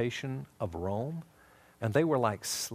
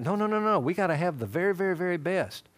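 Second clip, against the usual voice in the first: higher, louder acted fatherly refusal; insistent dad; 6 semitones higher, 4 dB louder than usual. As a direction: cut the child off emphatically. Dad refuses Levi's plea.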